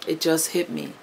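it just hit me said softly, moved. Real, not acted. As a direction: let it sink in quietly. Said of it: "I'm getting emotional".

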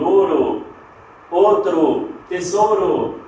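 "ouro, outro, tesouro" with a pure o for the ou; Spanish single O in "tesouro"; Spanish plain O. Shown as a demonstration. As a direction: say "outro" as Spanish "otro", no glide. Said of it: "nós temos o em espanhol".

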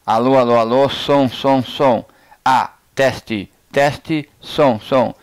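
loud, spaced mic-check calls; loud sound check; mic test calls. Shown as a demonstration. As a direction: project each test word at the mic. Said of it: "Agora eu vou falar".

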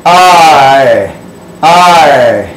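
"I, I" said as two quick e sounds, ee-ee; Latin I said as E-E. Shown as a demonstration. Teacher demonstrating Latin I as ee. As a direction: demo the Latin I as a doubled ee sound. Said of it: "I'd have to go like this".

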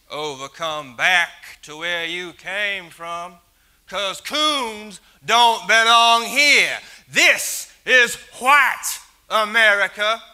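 loud racist snarl; hateful shout. Acted. Bomber shouting that this is white America. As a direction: bark it out as a threat.

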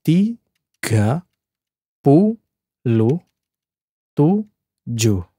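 "tiga puluh tiga" split by syllables, slow; sounding out words. Shown as a demonstration. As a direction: say "tiga puluh tiga" word by word with pauses. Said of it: "if I break down into syllables".

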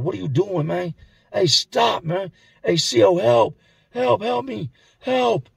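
acted cries for help. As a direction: imitate a frightened victim calling out. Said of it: "He starts screaming for help".

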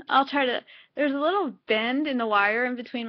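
lips held open by fingers; talking with fingers at mouth; fingers pulling lip down. Real, not acted. Seen 2: Fingers hold lower lip down, showing teeth, while she speaks.

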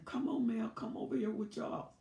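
calling over. Retold or imitated.

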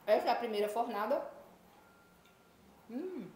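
talking through a mouthful of cake; words round a bite of food; mouth full. Real, not acted. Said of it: "Falando de boca cheia".

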